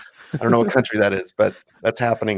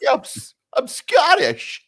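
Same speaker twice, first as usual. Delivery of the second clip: mock Scottish; 14 semitones higher than usual.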